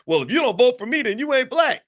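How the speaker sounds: imitating an exasperated outburst, high-pitched; cracking under pressure. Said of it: "that's when Biden just cracked and said".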